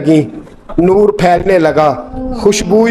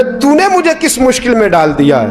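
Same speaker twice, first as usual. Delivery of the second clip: quarrelsome elder; 6 semitones higher than usual. Retold or imitated. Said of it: "झगड़ने लगे".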